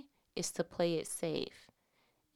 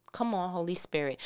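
ordinary talk, nothing marked

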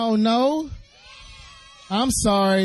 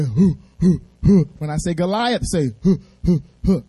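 mock giant hoots; 2 semitones lower than usual. Shown as a demonstration. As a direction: hoot like a lumbering giant. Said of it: "you guys say".

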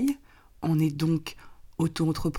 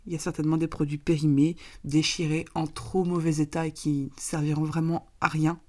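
raspy, hoarse from a cold. Real, not acted. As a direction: speak through a sore, hoarse throat. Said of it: "je m'excuse pour ma voix rocailleuse".

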